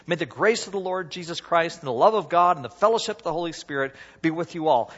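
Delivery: intoned blessing, measured and even; the familiar closing blessing; benediction voice. Shown as a demonstration. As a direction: read it like a solemn benediction. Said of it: "It just sounds like a benediction".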